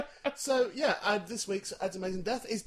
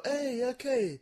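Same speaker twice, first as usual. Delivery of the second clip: radio DJ voice; 7 semitones higher, much slower than usual. Pretend. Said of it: "Like a proper radio show".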